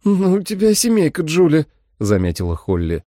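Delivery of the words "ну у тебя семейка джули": wry remark. A narrator's reading. Holly wisecrack.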